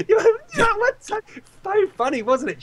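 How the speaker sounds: very high, laughing mockery; cackling wife tease. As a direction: tease him through laughter. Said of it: "my wife".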